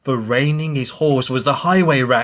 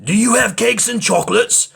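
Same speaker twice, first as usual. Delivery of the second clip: eager cry; 10 semitones higher, 5 dB louder than usual. Acted. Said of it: "the highway robber cried".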